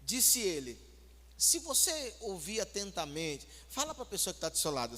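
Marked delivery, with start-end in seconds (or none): 1.4-3.5 gently soft. Shown as a demonstration. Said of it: "assim, bem suavezinho".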